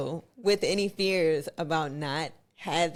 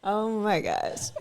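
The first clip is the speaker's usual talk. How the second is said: slow, higher, through real laughter; laughing; 4 semitones higher, slower than usual. Real, not acted. Put on the spot about an accent, laughing. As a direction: draw it out, still laughing.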